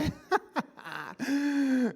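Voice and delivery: high burst of laughter; hearty laugh. Real, not acted. Pastor laughing at his own retold story, hearty laugh. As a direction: let a real laugh break out.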